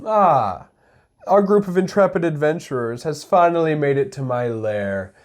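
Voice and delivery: a hint of a gloating mastermind; measured villain monologue, lightly theatrical; lightly voiced villain. Villain greets adventurers in the lair, mildly theatrical menace. Plays villain in opening skit.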